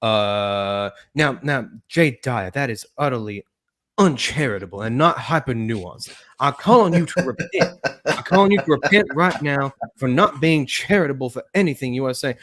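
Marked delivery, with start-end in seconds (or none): 1.1-12.4 lightly hammed-up pious rebuke; mock scolding preacher. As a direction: call them to repent with mock solemn emphasis. Mock call to repentance, impression skit.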